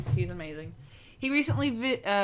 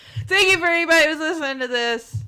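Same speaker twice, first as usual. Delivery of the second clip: high, full-on shout; 9 semitones higher, 11 dB louder than usual. Thanking anyone listening to the recording, shouting. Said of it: "Sorry for shouting".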